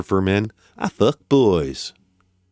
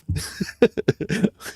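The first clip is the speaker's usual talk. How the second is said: hushed laugh; 9 semitones higher, 5 dB quieter than usual. Real, not acted. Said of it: "I can hear my mum is up".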